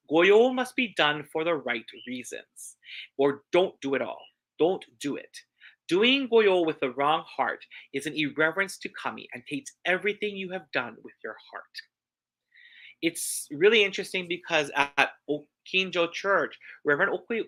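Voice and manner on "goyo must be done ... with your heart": each word of Goyo must be done weighed, slow and firm; slow emphatic repeat. Shown as a demonstration. Preacher repeating the reverend's warning to the congregation, slow and emphatic. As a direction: lay it down slowly so they hear it. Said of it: "Let me repeat what he said".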